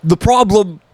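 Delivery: failed Andrew Tate. Pretend. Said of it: "that is not an Andrew Tate's voice".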